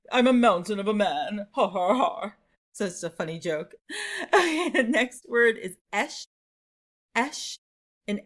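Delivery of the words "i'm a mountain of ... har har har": hammed-up movie big man with mock laugh; boast, then punch out a fake laugh; old-movie laugher. Teacher joking as old-movie mountain man, mock hearty. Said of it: "an old movie when they're laughing".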